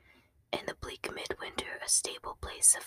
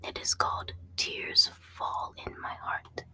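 usual speaking voice

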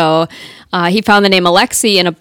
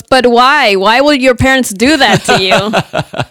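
put-on slow, laughing Russian accent, a bit higher; a Russian man baffled and amused, in a Russian accent; 4 semitones higher, slower than usual. A Russian man asking why her parents chose it, in a laughing Russian accent. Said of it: "my best Russian accent".

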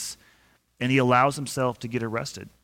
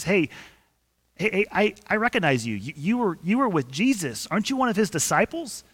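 a lightly voiced servant girl, higher and insistent; accusing servant girl; 6 semitones higher than usual. Servant girl calling Peter out in the courtyard, mildly higher and insistent. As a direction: point him out, a little higher, pressing. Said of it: "and she says".

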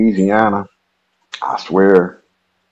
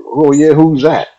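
higher, slower voice for the curious stranger; nosy stranger; 9 semitones higher, 5 dB louder, slower than usual. Retold or imitated. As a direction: lift the voice to play the nosy guy. Stranger questions him, retold.

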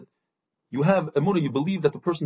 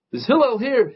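retold scream; 7 semitones higher, 4 dB louder than usual. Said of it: "the guy screams out again".

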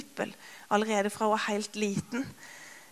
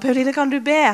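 frustrated plea; 5 semitones higher, 7 dB louder than usual. Retold or imitated. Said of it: "i frustrasjon".

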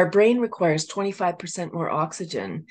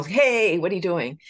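mock road rage; 4 dB louder than usual. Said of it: "We take it personal".

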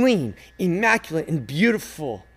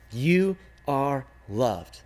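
very slow and gentle, a little softer; tender; 5 semitones lower, 5 dB quieter, much slower than usual. A narrator's reading. Rag man to the hurt little girl, slow gentle comfort. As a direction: reassure her word by word.

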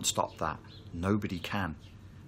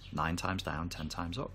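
softer repeat; 5 dB quieter than usual. Shown as a demonstration. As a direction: echo the saying much softer, to yourself. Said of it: "Japanese saying".

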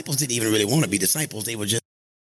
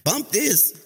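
dismissive; 7 semitones higher than usual. Pretend. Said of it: "make us say".

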